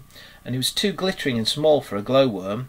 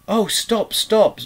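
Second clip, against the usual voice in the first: very high, delighted outburst; ecstatic cry; 10 semitones higher, 6 dB louder, much slower than usual. A narrator's reading. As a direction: cry out, overcome with rapture. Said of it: "cried Mole in ecstasy".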